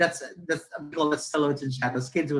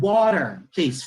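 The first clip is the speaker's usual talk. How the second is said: put-on emphatic English accent, louder on the first word; retold reply in exaggerated proper English accent; good English accent; 2 semitones higher, 5 dB louder, slower than usual. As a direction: show off the English accent on "Water". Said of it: "The accent".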